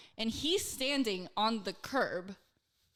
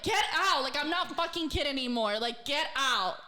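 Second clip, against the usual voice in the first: retold yell; 4 semitones higher than usual. Driver ordering drunk guest out of car, retold yell. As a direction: order it out in exasperation. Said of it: "I had to yell at him".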